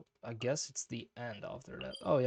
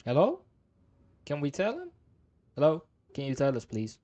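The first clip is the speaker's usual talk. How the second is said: loud, higher-pitched demand for answers; raised voice, badgering the characters; calling out insistently; 4 semitones higher, 8 dB louder than usual. Real, not acted. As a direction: pester them loudly for an answer. Calls out to unresponsive game characters.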